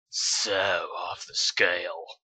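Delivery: slow unvoiced whisper; slow dreamy whisper. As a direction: breathe it out slowly. Twilight after lovemaking.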